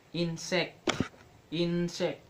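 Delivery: "insect" with a strong first syllable; stress on first syllable. Shown as a demonstration. Teacher giving an example of stress, "insect" strong at the start. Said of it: "Say the first syllable strongly".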